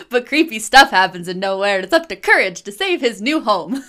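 a hint of announcer voice, laughing through it; lightly voiced TV intro, giggling; old radio announcer. Shown as a demonstration. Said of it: "here, here goes nothing".

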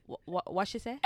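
lightly voiced puzzled gran; uncomprehending gran. Granddaughter imitating gran when she speaks English-style, lightly voiced stammering puzzlement. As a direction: stammer the question like a baffled gran. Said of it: "But if I speak like this, she's like".

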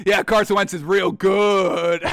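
slow, sarcastic praise for "real good"; slow mocking compliment; ironic. Shown as a demonstration. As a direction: say it slowly with heavy irony, not meaning a word. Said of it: "when they come out ironically".

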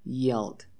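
"yelled" as a clear low-pitched model word; model pronunciation. Shown as a demonstration. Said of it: "Repeat one more time".

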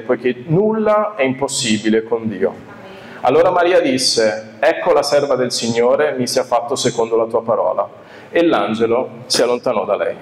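measured scripture reading voice. Acted. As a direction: read the passage with reverence. Reads scripture aloud.

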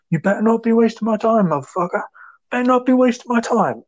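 high-pitched mock yell; imitated shouting. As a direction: act out a deranged cop shouting a threat. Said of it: "walks up to him and shouts".

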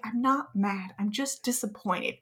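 understated disappointed-parent voice; disappointed dad. Retold or imitated. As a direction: quietly let the kid down, like a dad. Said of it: "kind of tone of voice".

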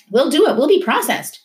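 high, urgent giving in; desperate surrender. A narrator's reading. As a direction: give up to save his father. Boy gives in to stop beating.

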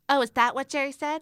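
high, loud snapping squeak; rising mouse voice. A narrator's reading. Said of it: "her little mouse voice rising".

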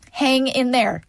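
tearful hang in there; crying plea. Real, not acted. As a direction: urge them on through tears. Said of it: "I'm ugly crying".

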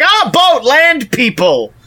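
high, thrilled gasp at a boat; excited discovery. Retold or imitated. Luca spotting a boat overhead, mock amazed. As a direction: marvel at the boat like a wide-eyed kid. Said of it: "he's like".

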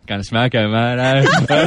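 jokey Australian banter; put-on Aussie accent. Guest showing off for the hosts, put-on Aussie accent. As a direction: play the Aussie bloke at smoko. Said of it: "I do this all day".

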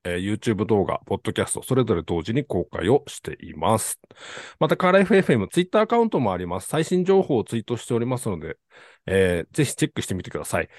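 formal announcer read; polite host reading show info; ultra polite japanese. Acted. Host reads formal show overview.

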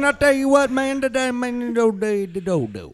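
loud, high trucker radio chatter; hammy CB trucker on the radio; over cb radio. Pretend. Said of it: "talk to him in language he can understand".

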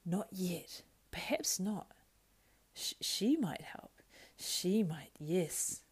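Gollum voice. Acted. Gollum arguing with himself, wheedling then whispering. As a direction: wheedle and hiss like a split creature.

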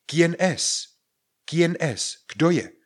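loud, high-pitched call of a question. Acted. Someone knocks and you shout who is it, calling out. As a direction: shout to whoever is at the door. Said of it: "A vy vykřiknete".

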